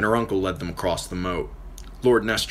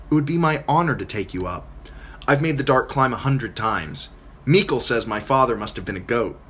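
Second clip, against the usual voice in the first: breezy, self-assured boast; cocky girl. Acted. Maya reassuring Catelyn about the climb, cocky. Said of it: "She sounded so cocky".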